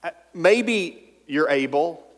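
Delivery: slow unsure hedging; hesitant mock doubt. Preacher mocking a wishy-washy answer to Jesus. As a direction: drag it out like you don't believe.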